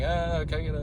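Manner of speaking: high, soft mimed asking; charades-style request. Retold or imitated. Doing charades with the girl to order water, high soft mock request. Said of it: "started doing charades with the girl".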